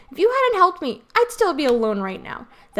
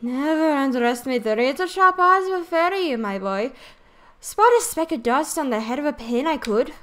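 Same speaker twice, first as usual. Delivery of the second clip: boastful fairy sidekick voice. Acted. Drippy boasting.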